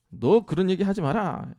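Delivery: loud, slowed scolding; stern scolding. Retold or imitated. Preacher paraphrasing Jesus scolding Peter, loud and slow. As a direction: tell him off, slowly. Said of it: "이런 얘기예요".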